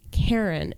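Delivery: "Karen" with a clear American R; American pronunciation. Retold or imitated. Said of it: "her husband's like".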